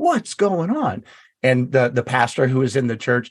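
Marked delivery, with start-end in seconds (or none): 0.0-1.0 put-on very high, desperate scream flung upward. Recalling a night alone in church, retelling screaming at God. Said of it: "I'm just screaming at God".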